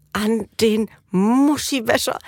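slow, lightly voiced indignant boy; imitating indignant son. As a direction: drag out the word like an offended child. Son repeats indignantly, retold by mother. (leicht nachgemachter empörter Junge, langsam)

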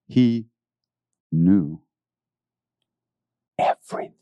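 whispered, breathy word; a hushed, awed everything. Real, not acted. Hushed emphasis.

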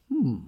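short pondering hum; a musing little hum; thoughtful hmm. Shown as a demonstration. Voice actor shows the noise that sums up his job, thoughtful hmm. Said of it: "it is thought-provoking to me".

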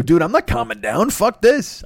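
outraged squeal of refusal; indignant refusal. Retold or imitated. Refuses to calm down, retold.

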